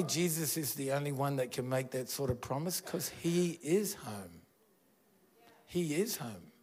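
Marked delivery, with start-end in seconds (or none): none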